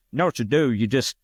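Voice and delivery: high, know-it-all bar guy voice; imitating the bar player. Imitating the bar guy giving bad advice, high and sure of himself. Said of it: "he talked like that, of course".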